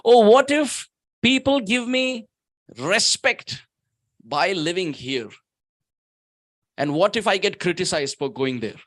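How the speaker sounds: a hint of a fretful seeker; mild worried pilgrim. Preacher voicing a devotee's excuses about Vrindavan.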